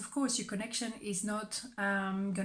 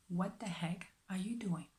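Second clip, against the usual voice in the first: whispered aside; 6 dB quieter than usual. Real, not acted. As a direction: hiss it under your breath. Aside to someone off camera.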